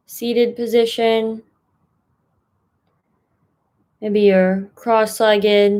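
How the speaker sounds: unhurried meditation guide, long pauses between phrases; guided meditation. Acted. Mindfulness fellow settling listeners into a comfortable seat, guided meditation. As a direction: ease listeners into a posture, phrase by phrase.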